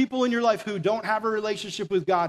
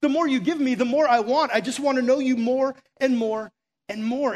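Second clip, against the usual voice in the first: rising, louder, hungry for more; eager longing; 4 semitones higher, 3 dB louder than usual. Retold or imitated. Moses longing for God, mildly louder and rising. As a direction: pour it out like you can't get enough.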